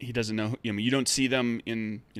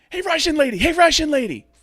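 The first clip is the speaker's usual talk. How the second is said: put-on excited boyish shout, very high and very loud; 12 dB louder than usual. Acting out a boy yelling from outside, high-pitched boy yelling. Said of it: "a relatively high pitched voice. It sounds like a boy".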